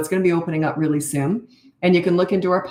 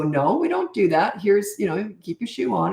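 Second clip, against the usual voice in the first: gentle correction; 2 semitones higher than usual. Shown as a demonstration. Parent correcting a little one, calm and unbothered. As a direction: correct a child without any anger. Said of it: "You sort of talk like that".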